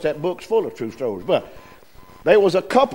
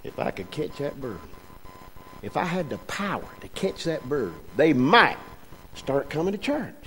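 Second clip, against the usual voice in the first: much softer, murmured plea to God; hushed prayer; 3 semitones lower, 10 dB quieter than usual. Retold or imitated. Preacher retelling his silent prayer to catch the bird, hushed. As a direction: pray it under your breath.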